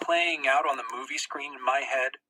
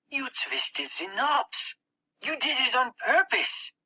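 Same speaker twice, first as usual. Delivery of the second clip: put-on higher, slow accusing boy voice; 10 semitones higher, slower than usual. Boy Max accusing his comrade, slow and higher. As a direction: point the finger slowly, a lightly voiced boy.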